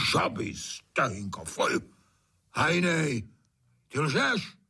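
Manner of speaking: disgust then accusing high cry; recoil, then accuse; disgusted shudder. A narrator's reading. Trautenberg shuddering at frog legs, disgusted. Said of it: "hned se otřese".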